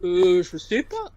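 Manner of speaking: drawn-out French "Euh" before the phrase; slow French hesitation on "Euh"; French filler euh. Shown as a demonstration. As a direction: hesitate slowly on a long rounded Euh. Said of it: "the classic French way of that filler word".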